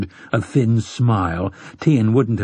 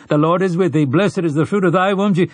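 high, reciting prayer voice, cut off; praying villager; 8 semitones higher, 3 dB louder than usual. A narrator's reading. Villager praying at the meeting until interrupted, high recital.

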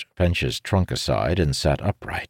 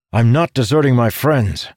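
put-on raised growl, defiant old man; 8 semitones higher, 6 dB louder than usual. A narrator's reading. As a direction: growl it back at him. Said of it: "the old codger growled".

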